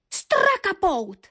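loud, high, drawn-out cry; shouted accusation. A narrator's reading. Young Zvonďa names the culprit to all, loud outcry. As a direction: cry out the culprit's name slowly. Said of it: "vykřikl Zvonďa".

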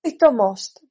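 said out loud. Acted. Alice dismisses the queen's idea, out loud. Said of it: "pronesla Alenka hlasitě".

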